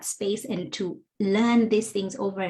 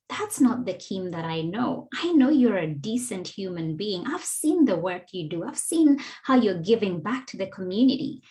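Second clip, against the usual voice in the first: gentle calling in. Shown as a demonstration. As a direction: invite her to explain, no blame. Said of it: "See how that is dramatically different".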